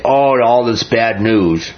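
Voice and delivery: slow, drawn-out mock sigh over the news; sarcastic. Mocking crowd scoffs at Jeremiah's bad news, slow and sarcastic. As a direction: scoff at the prophet's gloomy warnings. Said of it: "They say it sarcastically".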